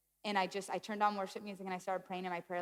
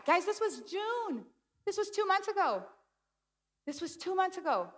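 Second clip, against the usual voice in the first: emphatic disbelief; 10 semitones higher than usual. Real, not acted. Stressing how recent the crisis was.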